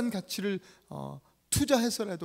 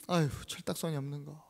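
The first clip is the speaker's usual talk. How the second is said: acted reproach; 3 semitones lower than usual. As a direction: grumble at her under your breath. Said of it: "막 호되게 뭐라 합니다". (낮게 나무라는 말투)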